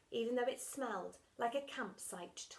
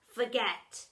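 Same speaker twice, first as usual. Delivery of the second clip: villainous dinner lady; 4 semitones higher, 9 dB louder than usual. Acted.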